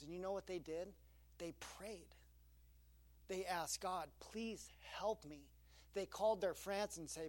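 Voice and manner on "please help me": slow quiet plea. Acted. Parents praying to God.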